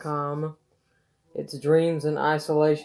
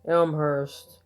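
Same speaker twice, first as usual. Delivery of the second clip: solemn ode with lifted openings, falling line ends; poetry reading. Acted. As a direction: recite an elegy, pausing after each phrase. Reads own poem aloud.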